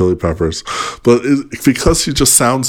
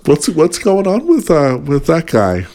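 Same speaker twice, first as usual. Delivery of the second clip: acted burning curiosity; 7 semitones higher than usual. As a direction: pitch climbing on insistent questions. Voicing eager curiosity about video titles.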